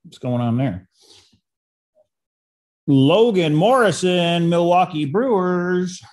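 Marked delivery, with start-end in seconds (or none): 2.9-6.0 a light sports-announcer read of the name and team. Pretend. Reading a card to viewers in a mild mock announcer voice. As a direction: call the player out like a half-joking stadium announcer. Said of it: "Like my announcer voice".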